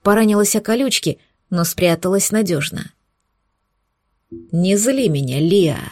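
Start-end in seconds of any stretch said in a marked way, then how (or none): 4.3-5.8 growled. Acted. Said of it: "прорычал оборотень".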